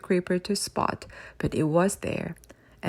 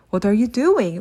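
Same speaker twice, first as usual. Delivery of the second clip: louder alarmed wail; 5 dB louder than usual. Acted. Creeper wailing at Father Christmas picking up keys. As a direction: cry out as the keys are taken. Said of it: "wailed Mister Creeper".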